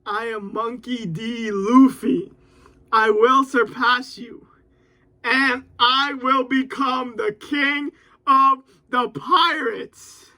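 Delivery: slow, steady heroic declaration; mild recited vow; dramatic reciting. Acted. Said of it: "I said, "Luffy ... says".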